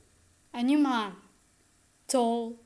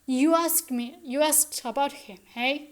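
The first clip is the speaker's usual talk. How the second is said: excited; 3 semitones higher, 4 dB louder than usual. Acted. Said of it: "Burling excitedly".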